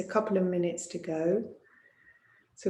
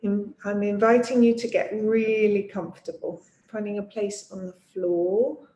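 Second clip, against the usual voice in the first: guided relaxation. Acted. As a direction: ease them into rest, pausing between phrases. Leads yoga nidra settling-in.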